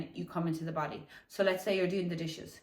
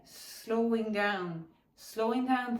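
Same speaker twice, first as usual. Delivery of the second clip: drawn out slowly; 3 semitones higher, much slower than usual. Shown as a demonstration. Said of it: "slow down by five percent".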